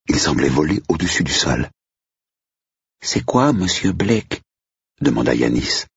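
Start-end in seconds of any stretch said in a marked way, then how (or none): 3.0-4.4 high-pitched, not very reassured question; uneasy. A narrator's reading. Yanis to Mr Blake about the ghost, mildly uneasy. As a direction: ask it higher, a touch worried. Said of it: "pas très rassuré".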